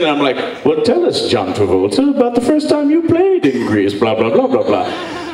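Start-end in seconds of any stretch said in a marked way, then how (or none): 0.6-3.9 interviewer voice. Retold or imitated. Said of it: "I'm like, you know, Lipton". 3.9-5.3 interviewer Lipton. Retold or imitated. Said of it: "where I'm like, you know, Lipton".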